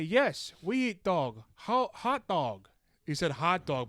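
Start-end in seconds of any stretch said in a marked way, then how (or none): 0.0-2.7 higher, mock Chinese accent of a classmate; quoting the Chinese kid with his accent; imitating Chinese accent. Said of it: "I say".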